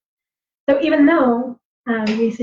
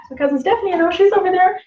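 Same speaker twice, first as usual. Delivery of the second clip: calling voice; 6 semitones higher than usual. Retold or imitated. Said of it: "But they would call out using this voice".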